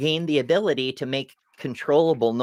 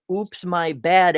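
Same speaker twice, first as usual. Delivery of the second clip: mock casual apology; 3 semitones higher, slower than usual. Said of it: "like, saying".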